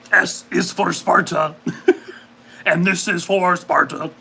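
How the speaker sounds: slow, laughing mild monster voice; lightly voiced monster, laughing; Cookie Monster voice. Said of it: "Cookie Monster".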